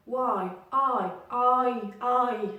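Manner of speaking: "Y" as why, "I" as eye, both glides clearly sounded; "Y, I" with two joined vowel sounds in each; diphthong. Shown as a demonstration. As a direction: stretch "I" from ah into ee. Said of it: "j'entends deux sons exactement".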